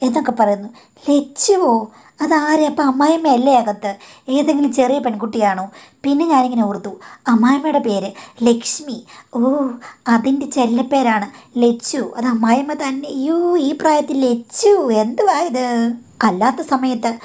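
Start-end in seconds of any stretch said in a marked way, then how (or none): 1.1-5.7 can't believe what she just heard; shocked disbelief. Retold or imitated. Wife overhearing mother-in-law's pet name, surprised and higher. Her own shocked thought retold. 13.1-15.7 higher, incredulous mocking exclamation; scandalised scoff. Real, not acted. Daughter-in-law scoffing at mother-in-law's pet name, raised pitch.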